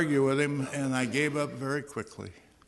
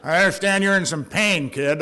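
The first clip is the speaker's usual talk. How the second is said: louder, laughing through the words; laughing old-timer; 6 semitones higher, 9 dB louder than usual. Retold or imitated. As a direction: tease him with a laugh. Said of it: "and he started to laugh".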